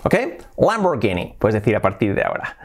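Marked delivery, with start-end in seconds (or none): 0.6-1.3 Lamborghini with a hard g, "-GEE-nee"; English pronunciation. Shown as a demonstration. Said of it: "pero en inglés sería así".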